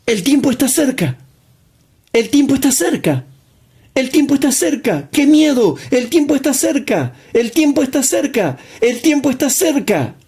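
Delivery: high, fast, mocking alarmist chant. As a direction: mimic the panicky false prophets, high and quick. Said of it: "También iban a decir". (imitando a los alarmistas, agudo y rápido)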